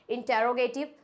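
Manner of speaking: इंटेरोगेटिव with a full "te-ro" in the middle; wrong pronunciation. Shown as a demonstration. Teacher showing first common mistake, इंटेरोगेटिव with "te-ro". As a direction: say इंटेरोगेटिव as in-te-ro-ge-tiv. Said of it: "ये दोनों ही गलत होते हैं".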